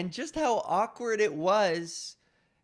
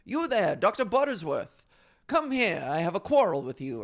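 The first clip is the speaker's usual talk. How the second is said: theatrical actor voice; 4 dB louder than usual. Retold or imitated. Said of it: "somebody would be like".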